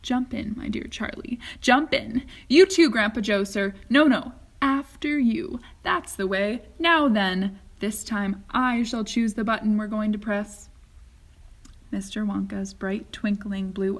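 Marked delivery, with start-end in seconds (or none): 0.0-10.7 lightly voiced, busy host; brisk Wonka. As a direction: usher them in with bustling cheer. Wonka ushers them in.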